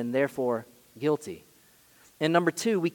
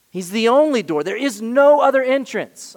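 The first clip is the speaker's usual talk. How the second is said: louder, ringing declaration; preaching loud; 6 semitones higher, 8 dB louder than usual. Real, not acted. Pastor declares Jesus the only door, loud. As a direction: proclaim it to the back row.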